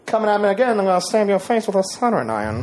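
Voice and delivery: halting impression, odd pauses between phrases; Christopher Walken. Host performs a movie line for contestants, actor impression. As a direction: do an actor impression in broken chunks. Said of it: "your best Christopher Walken impression".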